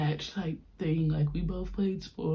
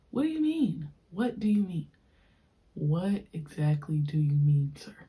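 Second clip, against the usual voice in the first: fake-confused, sarcastic; mock disbelief; 2 semitones lower than usual. Questioning ex who refuses breakup, sarcastic.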